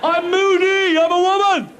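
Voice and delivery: high, whiny mock-wounded cat; hammed-up high pitched diva; sulky cat voice. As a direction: play a moody cat in a huff.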